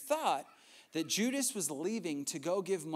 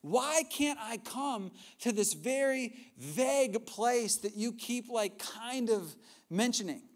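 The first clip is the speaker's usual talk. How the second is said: fired up; 5 semitones higher than usual. Retold or imitated. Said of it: "he gets fired up".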